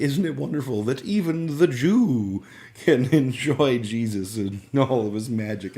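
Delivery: high, loud, gushing uncle with a laugh; gushing uncle impression. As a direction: sell the wonder of Jesus like a preacher. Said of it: "his whole thing was like".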